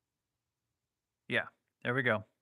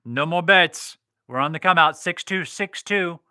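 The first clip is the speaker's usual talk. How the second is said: louder dealer calling the roll; craps table caller; 3 dB louder than usual. Acted.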